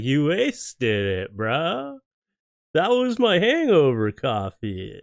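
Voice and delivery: slow, put-on monkey voice; mock-indignant animal voice; voicing the monkey. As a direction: drag out the outrage like a cheeky monkey. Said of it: "It's just like".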